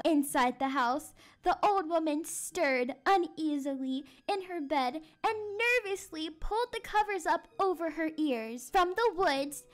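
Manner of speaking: measured, suspenseful storytelling; spooky story narration. A narrator's reading. Teacher reads the eerie midnight part to class, suspenseful storytelling. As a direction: build the midnight suspense for children.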